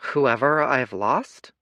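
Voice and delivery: put-on a lost boy, puzzled. Boy echoing the patriarch, blank and slow.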